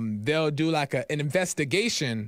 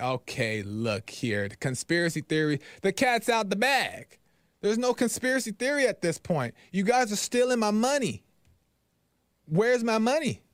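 building angry demand; 4 semitones higher than usual. Retold or imitated. Confronting bank staff over stolen check.

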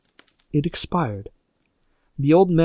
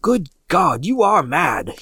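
higher, horrified exclamation; shocked disbelief in a raised pitch; aghast; 5 semitones higher, 4 dB louder, slower than usual. A narrator's reading. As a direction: cry out appalled. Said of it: "he cried aghast".

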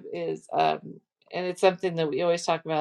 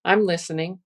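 sarcastic. Shown as a demonstration. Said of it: "I'm putting very sarcastic".

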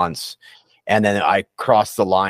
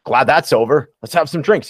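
mock relieved cheer; 7 semitones higher, 5 dB louder than usual. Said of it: "and then I was like".

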